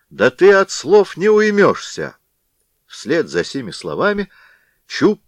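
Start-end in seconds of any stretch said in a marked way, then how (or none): 0.1-2.2 higher, louder menacing growl of a threat; angry threat. Acted. Blacksmith threatening the stubborn caroler, angry and louder. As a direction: warn him before striking.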